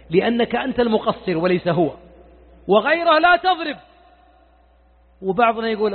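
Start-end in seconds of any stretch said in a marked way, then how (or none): 2.7-3.8 وغيره لا تضرب punched high and loud on لا; emphatic لا تضرب. Real, not acted. Preacher ruling out hitting children, loud and emphatic. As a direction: end the ruling with a firm, raised لا. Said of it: "وأقولها بصوت عال".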